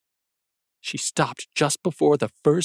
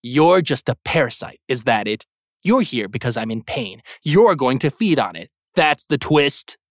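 defiant retort; 3 dB louder than usual. Acted. Brian confronts the creature.

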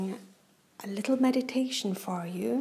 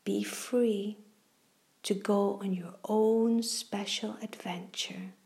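guided meditation. Acted. Reads a kids' guided meditation.

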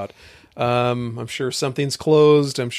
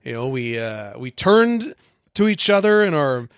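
eager audition; slower than usual. Acted. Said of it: "This is your worst reading of all time".

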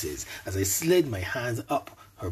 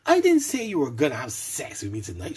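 testy snap; 5 semitones higher, 4 dB louder, faster than usual. A narrator's reading. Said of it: "she snapped back testily".

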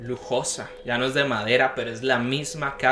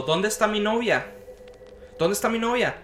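anxious asking; 6 semitones higher than usual. Retold or imitated. Dream self searching for girlfriend.

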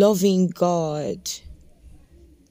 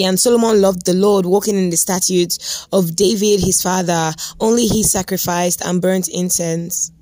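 scripture reading. Acted. Preacher reading Joshua to his podcast listeners, firm scripture read. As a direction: proclaim the verse to the listeners. Reads First Kings aloud.

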